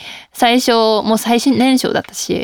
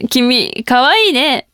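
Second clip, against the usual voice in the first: light flirty chatter; 3 semitones higher than usual. Shown as a demonstration. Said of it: "という、適当なトーク".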